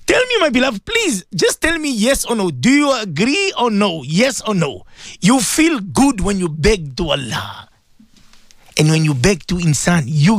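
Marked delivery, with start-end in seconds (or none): 0.0-4.9 much higher, urgent begging; impassioned plea. Real, not acted. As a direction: plead with the listener to answer. Pleading with listeners emotionally.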